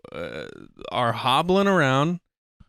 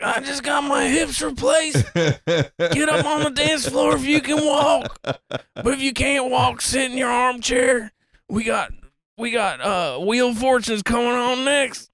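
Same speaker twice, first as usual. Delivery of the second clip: put-on choked old uncle voice; 11 semitones higher than usual. Old uncle hyping the dance floor, high choked voice. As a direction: squeeze it out high like a frail uncle playing announcer. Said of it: "He'd be like".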